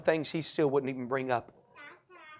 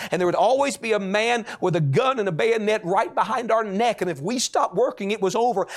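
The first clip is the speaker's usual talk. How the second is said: raised, driving testimony; urgent preaching; 4 semitones higher than usual. Retold or imitated. Preacher telling the church of prison terrors, urgent. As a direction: preach the hardship with rising urgency.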